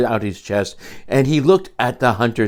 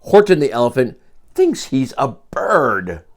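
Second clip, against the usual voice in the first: mock yell; 2 semitones higher, 5 dB louder than usual. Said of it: "they yelled".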